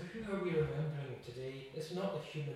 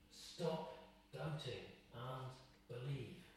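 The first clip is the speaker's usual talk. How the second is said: much softer, slow repeat; soft, slow echo; 7 dB quieter, slower than usual. Shown as a demonstration. Preacher repeats the command softly to the congregation. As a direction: let it sink in quietly.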